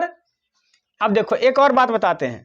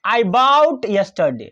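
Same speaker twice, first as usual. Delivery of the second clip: slow dictation; much slower than usual. Shown as a demonstration. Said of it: "चलिए".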